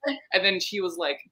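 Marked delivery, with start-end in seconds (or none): 0.1-0.2 high, fast, insistent mock voice; mock insistent woman. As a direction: insist like she won't let go. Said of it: "she's like".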